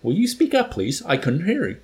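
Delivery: high, loud exasperated order; acted officer demanding to be heard; irritated demand. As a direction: pitch it up sharply on the demand. Colonel berates the accused cadet.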